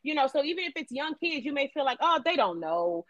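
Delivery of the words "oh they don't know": low, slow brush-off; dismissive. Acted. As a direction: wave it away in a lowered voice. Voices a dismissive parent.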